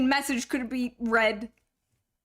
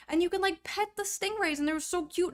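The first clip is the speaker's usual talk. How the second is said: gushing; 7 semitones higher, faster than usual. Real, not acted. Gushing about petting stingrays.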